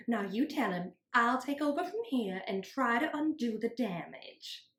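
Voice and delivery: condescending teacher, with a laugh. Acted. Teacher correcting Scout.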